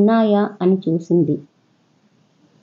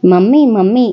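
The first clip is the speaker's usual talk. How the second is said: put-on louder, a boy calling mummy from the bedroom; child calling out; 3 semitones higher, 4 dB louder than usual. Spoiled son calls his mother from bedroom, loud call. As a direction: call out for mum like a spoiled kid. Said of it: "అరుపు వినిపించింది".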